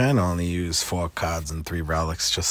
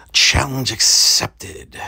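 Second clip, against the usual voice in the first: triumphant; 7 semitones higher, 8 dB louder, much slower than usual. Real, not acted. Triumphant repeat.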